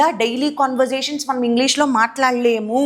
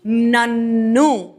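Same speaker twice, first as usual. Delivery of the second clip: slow stretched word; 4 semitones lower, much slower than usual. Shown as a demonstration. Teacher stretching నన్ను for students, very slow. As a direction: draw out నన్ను very slowly. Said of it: "ఏం మారాలి?".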